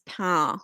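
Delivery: PAIN with a nasal vowel and silent N; nasal French vowel. Shown as a demonstration. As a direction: say French "pain", vowel through the nose, no final N. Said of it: "the I gets nasal".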